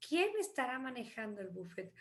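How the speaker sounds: fast unvoiced whisper of the translation; whispered aside translation; quick whisper. Shown as a demonstration. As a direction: rush it out in a whisper.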